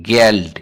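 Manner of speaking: गेल्ड said crisply with a hard final t; German pronunciation demo; German word said. Shown as a demonstration. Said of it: "गेल्ड इस तरह कहते हैं".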